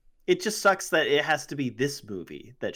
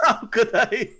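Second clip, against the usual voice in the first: high panicked whine; 9 semitones higher, 5 dB louder, slower than usual. Pretend. Voicing sick villain.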